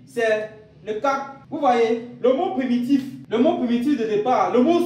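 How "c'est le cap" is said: "le cap" said slowly and spelled out deliberately; Yemba root word. Shown as a demonstration. Teacher naming the root word "le cap" to students, slowly. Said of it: "Le mot primitif des deux verbes ici".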